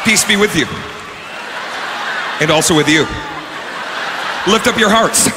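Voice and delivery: lightly voiced liturgical recitation; priest at Mass. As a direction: intone it with pauses between responses.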